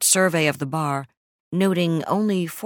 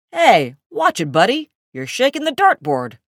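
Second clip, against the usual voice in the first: annoyed shout; 8 semitones higher, 7 dB louder than usual. Acted. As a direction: yell at the guy shaking the board. Bar patron yelling complaint.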